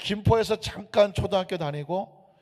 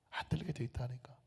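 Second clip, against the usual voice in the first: much softer, hushed repeat; near-whispered insistence; 5 semitones lower, 14 dB quieter than usual. Acted. Pastor repeating to the congregation, hushed insistence. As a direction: drop to almost nothing to press the point.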